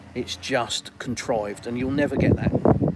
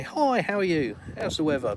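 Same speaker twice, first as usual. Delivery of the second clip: higher-pitched chirpy greeting; mock small talk; 4 semitones higher than usual. Stranger greeting you on the street, mock-cheerful. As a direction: imitate an over-friendly passer-by lightly.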